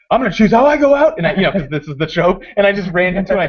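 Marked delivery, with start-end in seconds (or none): 0.1-1.2 high, loud heroic declaration; hammed-up last-stand bravado; retold defiant resolve.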